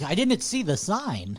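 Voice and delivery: slow, high, swooping whine; drawn-out mock-innocent plea; mock excuse. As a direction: stretch it out in an exaggerated swoop. Mock customer excuse, sung out.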